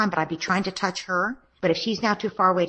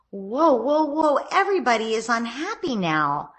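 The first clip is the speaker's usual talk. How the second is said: raised, lively call to settle things down; calm parent stepping in; 5 semitones higher than usual. Shown as a demonstration. Coach showing a parent how to halt a sibling fight, pitched up. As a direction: demo of a parent calming the room. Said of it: "You'd state the problem".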